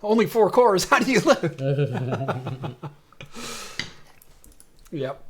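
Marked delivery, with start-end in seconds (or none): 0.0-1.6 higher, exaggerated teasing; mock disbelief. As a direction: ham up the disbelief. Repeats tease, louder and higher.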